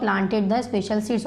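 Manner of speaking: very slow, word by word, for students to write; slow dictation. Shown as a demonstration. Teacher reading a worksheet line to the class, slow dictation. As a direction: read it out slowly so the class can copy.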